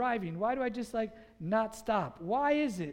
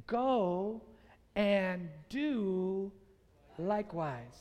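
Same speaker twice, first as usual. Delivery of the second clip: deliberate delivery, pausing between phrases; measured quote; much slower than usual. Shown as a demonstration. Preacher giving Jesus' four important words, measured and spaced out. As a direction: let the words fall away at the end. First take of the key words.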